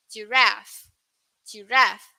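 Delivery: "Giraffe" short and quick; American pronunciation. Shown as a demonstration. Teacher repeating the US "Giraffe" for students. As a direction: US "Giraffe", clipped ending. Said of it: "that's for U S".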